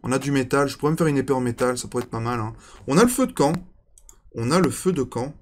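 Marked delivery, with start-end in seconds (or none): 2.9-3.5 excited. Real, not acted. Excited at finding campfire.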